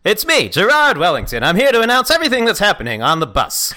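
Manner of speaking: put-on old-timey announcer. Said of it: "Sounds like a British guy".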